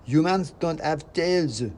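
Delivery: high, loud, slow squeak; other mouse. Acted. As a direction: correct him flatly as a prim rodent. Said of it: "said the other mouse".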